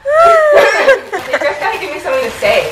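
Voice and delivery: squeaky high helium voice, laughing. Real, not acted. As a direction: talk after sucking helium. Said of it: "this is what I sound like with helium".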